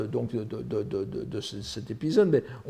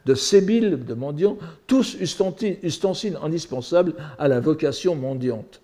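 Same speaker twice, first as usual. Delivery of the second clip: higher, expressive storyteller's delivery; declaimed narration with lively quotes; animated story reading; 5 semitones higher, 4 dB louder than usual. Acted. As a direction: read the comic tale with relish. Reads translated story aloud.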